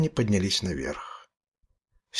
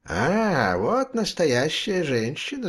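shouting; 6 semitones higher, slower than usual. A narrator's reading. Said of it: "закричал Берман".

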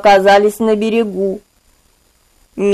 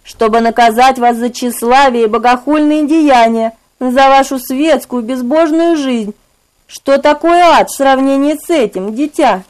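high, cold menacing voice; eerie inquisitor; 4 semitones higher than usual. Acted. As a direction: condemn him like a dark judge. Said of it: "раздался тихий шёпот".

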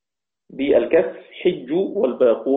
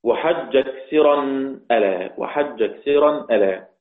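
poem recitation. Acted.

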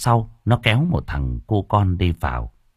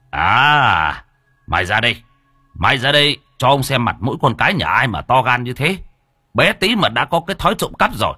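angry scolding; 5 semitones higher than usual. Acted. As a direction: drag the thief out, scolding. Scolding a caught child. (quát đứa bé, cao và to)

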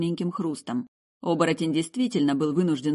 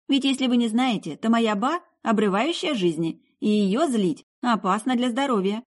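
put-on high, insistent girl's voice; young woman setting them straight, pitched high; exasperated girl; 6 semitones higher, 3 dB louder than usual. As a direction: explain it with impatience. Indignant girl keeps explaining to officers.

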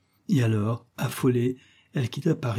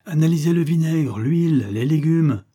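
loud, higher list of demands; insistent order; 6 semitones higher, 5 dB louder than usual. A narrator's reading. Widow demanding the experts test everything, loud and insistent. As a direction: press each item urgently. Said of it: "recommanda la veuve".

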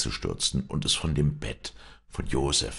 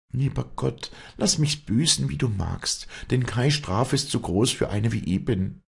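high-pitched, pleading prayer; fervent prayer; 10 semitones higher, 4 dB louder than usual. A narrator's reading. Penitent woman begging God for punishment, fervent prayer. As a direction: pray penitently, voice lifted high. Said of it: "betete sie".

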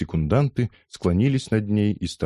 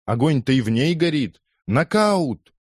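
high, excited ringside yell; crowd yelling; 8 semitones higher, 4 dB louder than usual. A narrator's reading. Several spectators hailing a knockout, yelling high. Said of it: "завопили несколько человек".

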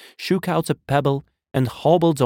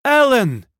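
high, loud shriek of a name; tearful shriek; 7 dB louder than usual. A narrator's reading. Woman in the crowd calling her child, shrieking. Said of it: "shrieked a woman in the crowd".

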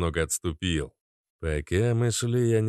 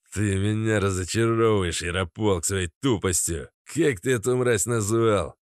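irritated. Acted. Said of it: "скривился Хейл, всё сильнее раздражаясь".

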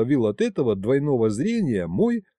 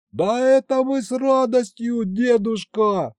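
much higher, delighted yell; high happy shouting; eager shout; 11 semitones higher than usual. A narrator's reading. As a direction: shout the invitation gladly. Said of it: "снова заорал я".

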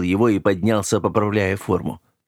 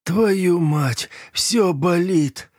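drawn-out, higher groaning curse from the floor; pained groan; 8 semitones higher, much slower than usual. Acted. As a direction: groan it out slowly, hurting all over. Beaten man groans from floor.

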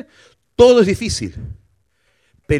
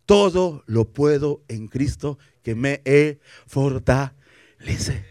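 slow confident verse; 3 semitones lower, much slower than usual. Acted. Quoting scripture with faith.

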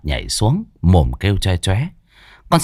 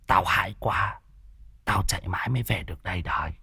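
frightened hush; 2 semitones higher than usual. Acted. Lão Đồng frightened, hushed report.

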